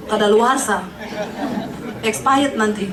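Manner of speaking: chuckling through the punchline; laughing. Real, not acted. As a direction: laugh while saying it. Joke about expiring unmarried. (sambil tertawa)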